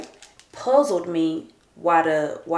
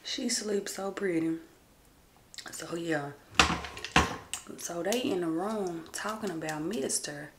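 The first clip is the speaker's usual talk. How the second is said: breathy whisper, barely voiced; 9 dB quieter than usual. Real, not acted. Mom whispering so sleeping Karen stays asleep, hushed whisper. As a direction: keep it hushed so she doesn't wake.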